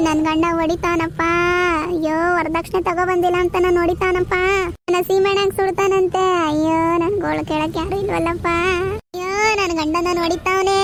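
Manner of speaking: hammed-up village wailing, with sobs; wailing lament. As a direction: wail it out to the whole street, hamming up the crying. Wife wails about beating husband. (ಅತಿಯಾಗಿ ನಟಿಸಿದ ಗೋಳಾಟ)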